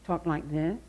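mimicked childhood speech impediment; imitated speech quirk. Shown as a demonstration. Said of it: "there was a little girl, she had, um".

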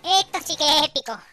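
grito agudo y épico; repítelo a lo grande, alto y fuerte; entusiasmo exagerado. Acted. Repite la frase con énfasis exagerado. (emoción teatral a gritos)

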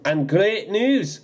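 slow, high glad announcement; beaming. Acted. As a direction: savour the good news. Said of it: "Donald beamed".

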